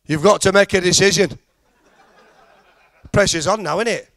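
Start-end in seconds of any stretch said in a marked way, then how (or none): 0.0-1.4 tannoy voice. Retold or imitated. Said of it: "This voice said".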